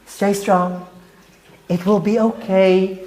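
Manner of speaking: soft mocking "Don't worry, stay strong"; mock gentle reassurance. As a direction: coo it sarcastically like useless comfort. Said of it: "you want me to scream to him".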